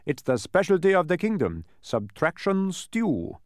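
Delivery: high, loud, delighted character voice; pleased dodecahedron. A narrator's reading. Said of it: "agreed the pleased dodecahedron".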